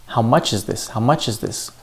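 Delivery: "much" and "this" stressed, "is" light and linked; sentence stress. Shown as a demonstration. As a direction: lean on MUCH and THIS, slip through "is". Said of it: "So that's the stress".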